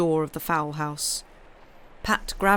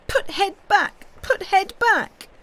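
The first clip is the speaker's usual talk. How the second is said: high, loud, desperate scream, second slower; 14 semitones higher, 6 dB louder than usual. A narrator's reading. Kezia clinging to Pat, screaming for him to fix the duck. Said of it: "she screamed".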